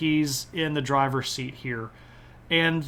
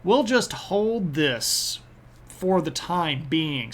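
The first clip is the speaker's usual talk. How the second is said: mock Austria; much slower than usual. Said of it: "Austria goes".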